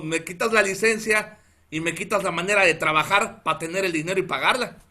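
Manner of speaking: retold protest, pressing the point; reclamo desesperado. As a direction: argue with the officer, mildly exasperated. Reclama al policía por la licencia. (reclamo angustiado, imitado)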